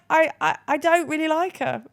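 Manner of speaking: lightly voiced four-year-old; a hint of a child. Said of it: "she was just like".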